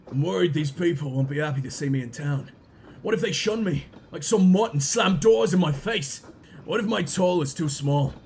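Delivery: low, lightly posh worried voice. Acted. Game character dreading the townsfolk, low posh worried voice. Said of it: "I don't know why he's posh".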